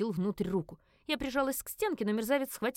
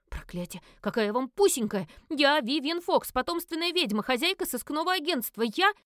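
louder, higher indignant; outraged; 6 semitones higher, 4 dB louder than usual. A narrator's reading. Witch protesting the silly pet name, outraged. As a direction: proclaim her true identity.

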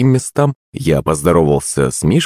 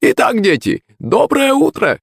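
teacher calling out. A narrator's reading. Teacher greeting the class on arrival, calling out. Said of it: "крикнул он".

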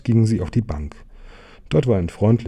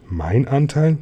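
higher-pitched, affronted question; indignant cry; 5 semitones higher, slower than usual. Acted. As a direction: call it back in disbelief. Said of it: "rief der kleine Bär".

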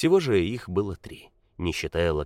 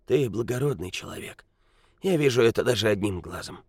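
put-on grumpy old man; 3 semitones higher than usual. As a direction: croak it like a bent old man. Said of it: "закряхтел старик".

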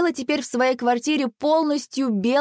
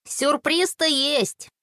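slow, higher, rueful admission; drawn-out, sighed concession; sighing; 6 semitones higher, much slower than usual. A narrator's reading. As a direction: draw it out with resigned regret. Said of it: "вздохнул Макс".

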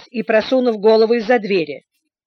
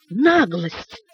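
furious cry. A narrator's reading. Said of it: "вскричала миссис Стик".

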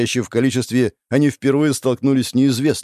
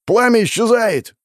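high, loud panicked cry; alarmed shout; 12 semitones higher, 4 dB louder than usual. Acted. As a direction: yell the warning across the field. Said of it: "кричит капитан-разведчик".

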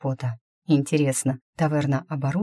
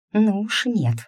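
sharp angry hiss, higher; 6 semitones higher, slower than usual. A narrator's reading. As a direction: hiss the refusal. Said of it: "прошипела я".

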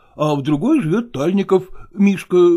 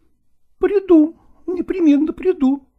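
higher, eager and affectionate; eager actress; 12 semitones higher than usual. A narrator's reading. Nastina eagerly promises to come to Lagorsky, higher affectionate voice. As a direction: promise it gladly. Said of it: "сказала Настина".

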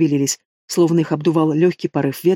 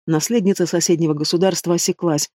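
plain reading voice

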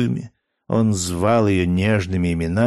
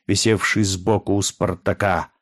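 plain reading voice

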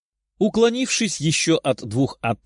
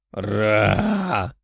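monster roar; 4 semitones lower than usual. Acted. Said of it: "проревел монстр".

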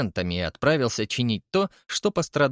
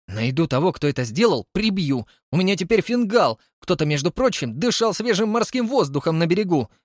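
higher, louder irate woman; furious threats; 6 semitones higher, 3 dB louder than usual. Acted. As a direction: vow revenge. Angry Camila with black eye. (разгневанная Камила, громко и высоко)

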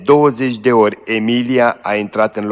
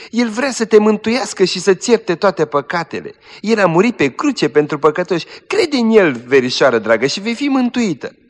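high, urgent pleading; earnest pleading; 7 semitones higher than usual. Acted. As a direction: beg her to believe. Cousin pleads with dying girl.

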